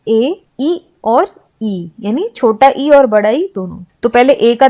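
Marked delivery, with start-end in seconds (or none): 0.1-1.9 ए, ई and ई drawn out slowly; slow vowel demo. Shown as a demonstration. Teacher to class, slowly sounding out vowels. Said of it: "ई के उच्चारण क्या क्या होते हैं?".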